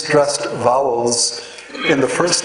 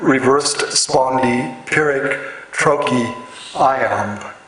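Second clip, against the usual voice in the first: slow scansion listing; slower than usual. Shown as a demonstration. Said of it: "The scansion is".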